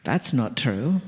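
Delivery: low, dismissive inner voice; a grumbling doubter in your head; mock inner critic scoffing; doubting inner voice. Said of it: "a little voice inside of your head that says".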